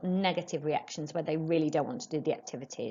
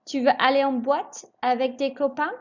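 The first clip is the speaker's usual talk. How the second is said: higher model, copains rises; rising question tune; 6 semitones higher, 3 dB louder than usual. Shown as a demonstration. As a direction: lift the end on copains. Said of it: "raise your voice just before the question mark".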